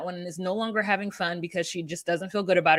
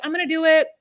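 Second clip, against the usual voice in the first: raised-pitch imitation of upset insistence; mock upset; 4 semitones higher, much faster than usual. Imitating woman promising caller money, mildly upset. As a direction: act out a mildly flustered promise. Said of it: "she's, like, upset".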